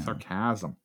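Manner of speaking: Sarcasm stressed on the second syllable, sar-CAS-um; stress on wrong syllable. Shown as a demonstration. Playing with the word for the co-host, Sarcasm misstressed as sar-CAS-um. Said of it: "did I put the emphasis on the wrong syllable".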